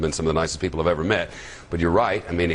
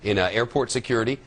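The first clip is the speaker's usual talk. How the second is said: higher-pitched anchor read with punched key words; news introduction; 4 semitones higher than usual. Acted. Anchor briefing listeners on airport pat-downs, newsreader delivery.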